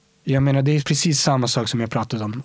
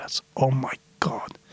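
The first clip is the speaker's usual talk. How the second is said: soft unvoiced whisper; whispered dismay; 6 dB quieter than usual. Real, not acted. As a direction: sigh it out in disbelief. Dismay at humanity. (viskande förtvivlan)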